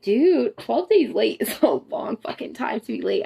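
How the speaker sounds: whispered aside, hushed; mock whisper. Telling herself about the late period in a whisper. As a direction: say it under your breath.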